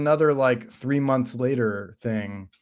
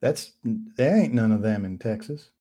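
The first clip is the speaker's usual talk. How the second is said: mock Texan accent; 4 dB quieter than usual. Co-host joining the Southern bit, mock Texan accent. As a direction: join in with a put-on Texan twang. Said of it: "you're a Texan belle".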